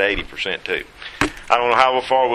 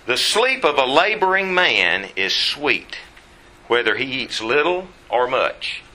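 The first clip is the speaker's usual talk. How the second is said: measured, raised reading voice; scripture reading; 3 semitones higher than usual. Acted. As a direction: read the verse aloud to the congregation. Reads scripture aloud.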